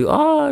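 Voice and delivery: high-pitched playful "ah"; imitated cry. Recalling Yusuf climbing on for the photo, imitated cry. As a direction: let out a high mock cry.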